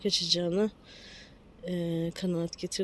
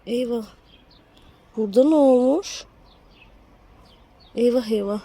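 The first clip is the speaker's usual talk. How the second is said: alarmed; 4 semitones higher, 8 dB louder than usual. Real, not acted. Alarm at rotten stem.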